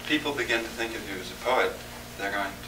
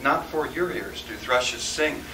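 poetry reading; 2 semitones lower than usual. Acted. Poet reading a wilderness reverie aloud, softening measured verse. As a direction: recite it gently, hushing as the storm dies away. Reads narrative poem aloud.

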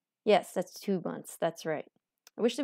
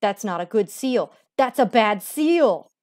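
emphatic; 7 dB louder than usual. Real, not acted. Loud emphatic judgement.

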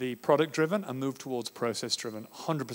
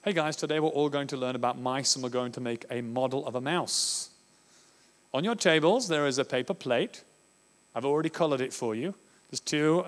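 controlling teacher. Shown as a demonstration. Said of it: "Product-driven learning is this".

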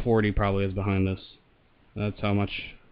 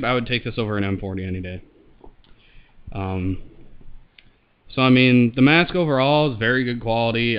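muffled voice behind a mask; talking through a respirator; through a gas mask; 4 dB louder than usual. Real, not acted. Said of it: "I'll throw it on here and show it, and I'll talk into the mic".

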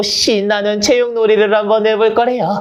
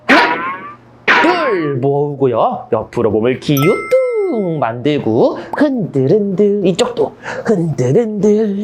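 singsong demo; 4 semitones lower than usual. Shown as a demonstration. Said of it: "선생님처럼".

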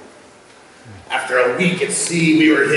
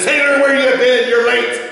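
pirate captain; 9 semitones higher, 3 dB louder than usual. Acted. Captain scolds late sailor.

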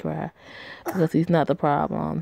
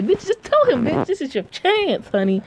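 very high, loud urging; urging shout; 11 semitones higher, 4 dB louder than usual. Real, not acted. Player yells at the heroine to tell the truth, high and loud. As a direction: yell at her to just tell him. Yelling at game character.

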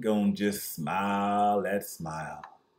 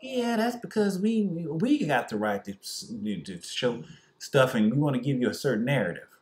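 lightly voiced arrogant network; mock media elite; 2 semitones higher than usual.

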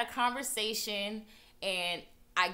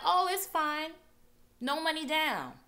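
breezy reassurance; 9 semitones higher, 4 dB louder than usual. Retold or imitated. Dealers brushing off down payment.

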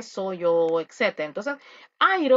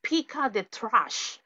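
example command; slower than usual. Shown as a demonstration. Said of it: "Un ejemplo".

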